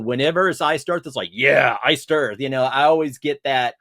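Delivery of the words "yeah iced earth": drawn-out, louder mock fan cheer; imitated fan enthusiasm. Fan spotting a band's shirt, imitated enthusiasm. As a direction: stretch it out like an excited fan.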